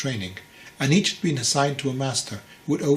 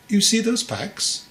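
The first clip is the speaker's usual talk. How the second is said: slow question; 8 semitones higher, 3 dB louder, slower than usual. A narrator's reading. Master slowly points out packs.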